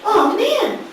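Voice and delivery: high, loud comic protest; mock pleading. Cursed woman protesting to the dead, mock pleading. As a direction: plead loudly as if wronged.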